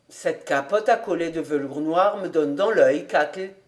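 a hint of Kobus, calmly deciding; lightly voiced master.

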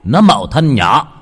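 thầy pháp nghiêm khắc, cao giọng chất vấn; gằn giọng ép con ma thả đứa bé; thầy pháp quát hỏi. Acted. Thầy Sáng đòi thả đứa bé. (thầy pháp nghiêm giọng tra hỏi)

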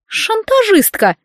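high, slow sighed exclamation; sighing reproach. Acted. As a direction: sigh it out as a wounded accusation. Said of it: "вздохнула родственница".

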